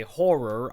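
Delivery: "horror" with both R's said clearly; horror enunciated. Shown as a demonstration. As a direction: stress the two middle R's in "horror". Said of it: "I have to enunciate the two R's".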